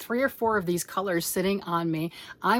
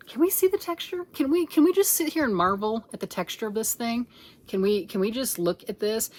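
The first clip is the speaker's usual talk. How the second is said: excited marvel; 3 semitones higher than usual. Real, not acted. Marveling at texture.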